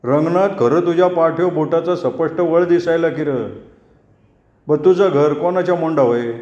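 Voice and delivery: put-on old neighbour pokes fun, slyly; tongue-clicking jibe. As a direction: needle him with a tut. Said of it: "जीभ टाळूला लावून म्हणला".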